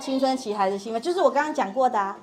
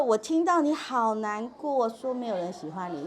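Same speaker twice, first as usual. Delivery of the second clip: 稳定情绪的重述. Shown as a demonstration. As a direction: reflect the hurt back to calm them down. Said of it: "你用重述的方法稳定他心情". (放慢语速、语气渐轻地共情重述)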